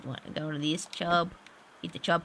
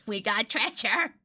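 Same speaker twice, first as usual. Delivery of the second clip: slow, chuckling little announcement; laugh, then savor the news slowly; pleased excitement; 2 semitones higher, slower than usual. Real, not acted. First take, chuckling at treasure.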